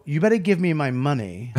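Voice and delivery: understated, mock-harmless mobster; soft rehearsal delivery. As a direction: imitate an actor holding back the threat. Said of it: "But in rehearsals ... he would just go".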